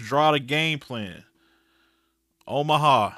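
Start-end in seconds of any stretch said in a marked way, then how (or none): 2.5-3.1 Peyton audible. Pretend. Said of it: "call out some Peyton shit".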